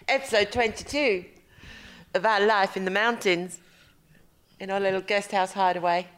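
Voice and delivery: lightly put-on posh phone voice; a hint of a polite posh telephone voice. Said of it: "It's my posh, like, my telephone voice".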